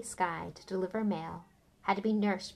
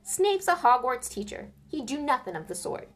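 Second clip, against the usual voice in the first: high, loud proud half-giant; proud Hagrid; 5 semitones higher, 5 dB louder than usual. Acted. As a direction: rattle on proudly about his dog. Narrator voices Hagrid.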